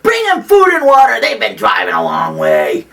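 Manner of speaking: big retold holler, loud and carrying; yelled back. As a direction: call out orders down a wagon train. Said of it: "I yelled back to the women".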